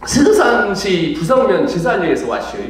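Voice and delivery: 충청도 사투리; Chungcheong dialect. Pretend. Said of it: "지가 어디서 왔냐면 충청남도".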